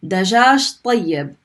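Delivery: Dajaj tayyib said slowly, each word clear; slow teaching read; slow model phrase. Shown as a demonstration. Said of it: "we pronounce the ya the second time".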